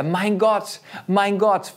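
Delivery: crying out to God in the dark. Retold or imitated. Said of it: "schrie er".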